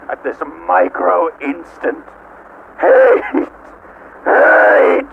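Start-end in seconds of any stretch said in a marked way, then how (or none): 2.8-5.1 screamed hate. Acted. AM screaming its hatred at its five prisoners. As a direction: spit the word out screaming. AI raging at humans.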